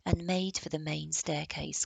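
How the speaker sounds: ordinary delivery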